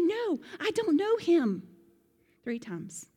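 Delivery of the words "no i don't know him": high, loud, slow denial; forceful denial. Retold or imitated. Peter denying Jesus a third time, loud and slow. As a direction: deny it hard, cornered.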